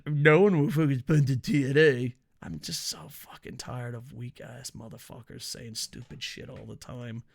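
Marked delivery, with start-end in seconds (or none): 0.1-2.1 mocking quote. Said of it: "remember when they said".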